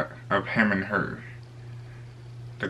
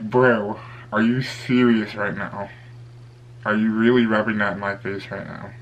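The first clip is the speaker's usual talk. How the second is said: slightly raised, exasperated confrontation; retold frustration. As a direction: confront your friend in mild disbelief, slowing down. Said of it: "actually really frustrated".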